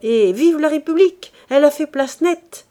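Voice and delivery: high, loud gleeful cry; old woman cheering the Republic with girlish glee. Acted. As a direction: cheer like a giddy girl. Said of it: "avec un rire de gamine".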